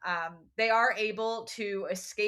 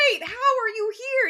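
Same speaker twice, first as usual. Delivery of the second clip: retold surprise, high and loud; astonished; 11 semitones higher, 6 dB louder than usual. Percy finding Tyson unexpectedly there, mock astonished. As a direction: playfully blurt it out higher and louder.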